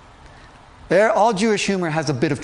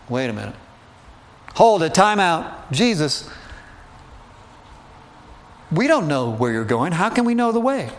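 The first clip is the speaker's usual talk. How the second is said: panicked. Retold or imitated. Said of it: "sense the panic in his voice".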